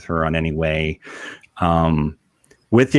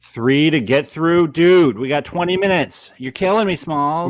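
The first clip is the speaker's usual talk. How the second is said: higher, louder exasperation; playful mock despair; exasperated; 7 semitones higher, 4 dB louder than usual. Exasperated about running late.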